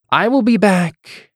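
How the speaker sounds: high, slow, grand noble voice; a lord making a grand exit; haughty nobleman. Acted.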